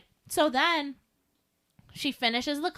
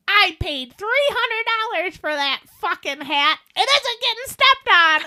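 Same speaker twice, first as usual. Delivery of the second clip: 1 defiant retort; 6 semitones higher, 5 dB louder than usual. Retold or imitated. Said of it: "looks me dead in the eye".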